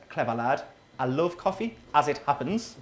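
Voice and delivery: low, sarcastic heckler voice; mock annoyed punter. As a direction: play the miffed coffee lover. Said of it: "People get angry about this".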